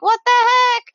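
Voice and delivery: high-pitched mock disbelief; retold outrage. Retelling being teleported into the water, acted disbelief. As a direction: exclaim it in replayed indignant shock.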